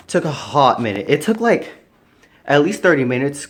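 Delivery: breathless and panting; out of breath, gasping between words. Real, not acted. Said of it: "I'm out of breath".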